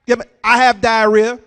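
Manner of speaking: loud call across a crowded room; calling loudly to a stranger across the food court; yelling across food court. Retold or imitated. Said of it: "I yelled across the food court".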